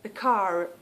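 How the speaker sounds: "car" with the final R sounded; linking R attempt. Shown as a demonstration. Trying to show viewers the linking R in "car". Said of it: "you will hear the R".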